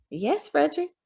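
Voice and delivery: softly, barely above a whisper; just above a whisper. A narrator's reading. Mama answering her son at night, just above a whisper. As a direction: hush it like a secret. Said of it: "Mama spoke just above a whisper".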